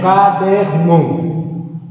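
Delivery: "caderno" very slowly as CA-DER-NO; syllable by syllable. Shown as a demonstration. Teacher breaks the word up to identify its tonic syllable, slowly. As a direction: stretch and separate each syllable of "caderno". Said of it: "Identifica a sílaba tônica".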